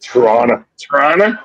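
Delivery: "Toronto" squeezed to "Tronna" in a Toronto accent. Shown as a demonstration. Host showing off the Toronto accent to friends, Toronto accent. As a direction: local Toronto accent, Toronto run into two syllables. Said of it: "Not the Toronto accent?".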